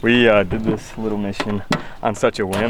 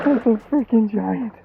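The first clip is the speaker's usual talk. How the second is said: excited; 9 semitones higher than usual. Real, not acted. Thrilled at giant fish.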